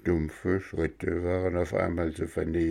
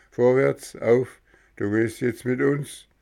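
gendarme command; 4 semitones higher than usual. Acted. Gendarme orders arrest.

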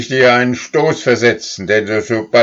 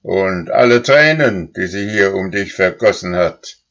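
higher and louder furious reckoning; furious old cow; 6 semitones higher, 6 dB louder than usual. A narrator's reading. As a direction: list every wrong he did. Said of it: "die allerzornigste".

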